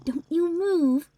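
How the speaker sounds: firm command. A narrator's reading. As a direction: tell the cat firmly to stay put. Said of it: "I told Chubbs".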